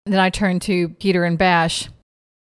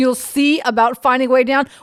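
sarcastic echo, pitched up; mocking; 3 semitones higher than usual. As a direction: throw his words back at him. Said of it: "mocking repeat of Peter's words".

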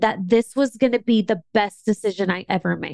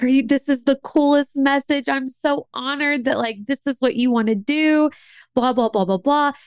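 higher, gushing mentor imitation; imitating excitement; 4 semitones higher than usual. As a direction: replay her thrilled reply, a bit hammed-up. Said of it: "she was so excited".

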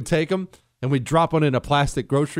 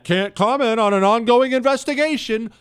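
higher, louder mock official line; mocking stock phrase; 8 semitones higher, 4 dB louder than usual. Mocking FBI hiding behind a stock phrase, a touch raised. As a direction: sneer the stonewall phrase. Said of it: "They'll hide behind that".

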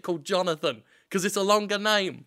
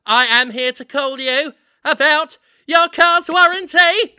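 bright, louder, higher robocall pitch; 6 semitones higher, 8 dB louder than usual. Pretend. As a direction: sell a car warranty like a pushy cold caller.

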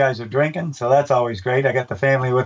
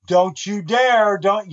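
raised stern dad warning, higher and slow; 5 semitones higher, much slower than usual. Retold or imitated. Announcer warns a runner about to moon, in a stern dad voice. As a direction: scold him like a father stopping a kid. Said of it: "I started talking like a dad. I raised my voice".

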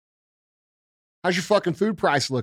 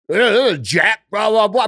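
a mock old man's flustered yelling, louder; mocking a doddering leader; 4 semitones higher, 5 dB louder than usual. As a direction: sputter like a confused old man ranting. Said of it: "He's running around screaming at people".

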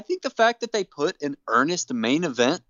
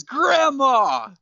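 Hornswoggle voice; 10 semitones higher, 4 dB louder than usual. Retold or imitated. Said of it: "looks at Vicky Guerrero and says".

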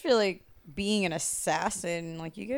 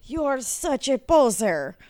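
put-on Russian accent; 6 semitones higher, 7 dB louder than usual. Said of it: "I've never done a Russian accent".

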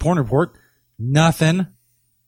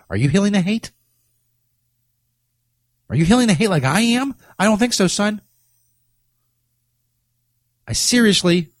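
pitched higher, smug and teasing; cocky taunting; 6 semitones higher than usual. Pretend. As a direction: lord it over the listener. Boastful mock challenge to listener.

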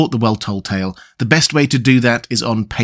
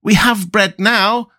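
put-on happy children; 9 semitones higher, slower than usual. A narrator's reading. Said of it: "they cried".

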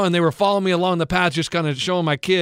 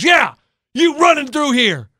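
put-on slow, high and loud grumpy old man; 7 semitones higher, 5 dB louder, slower than usual. Coach imitating the neighbor, slow and loud. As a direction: drag it out like a cranky old man. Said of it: "He goes".

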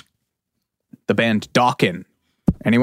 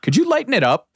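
lighter voice; 10 semitones higher, faster than usual. Retold or imitated. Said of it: "both looked at me and said".

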